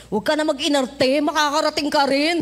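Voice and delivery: loud self-scolding; scolding herself. Retold or imitated. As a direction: tell yourself off firmly. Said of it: "nireview ko yung sarili ko". (pinagsasabihan ang sarili nang malakas)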